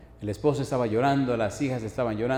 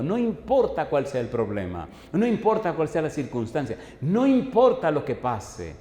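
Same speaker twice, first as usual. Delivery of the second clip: predicación enérgica; 3 dB louder than usual. Acted. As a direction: preach with mounting emphasis. Preaches to congregation. (predicación enfática)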